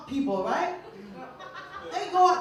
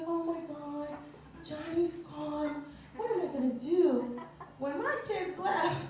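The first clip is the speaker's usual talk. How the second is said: soft, slightly raised mock lament; mock empty-nest despair; 2 semitones higher, 4 dB quieter than usual. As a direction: play a forlorn parent, hushed and overdone. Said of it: "they go through that empty nest syndrome".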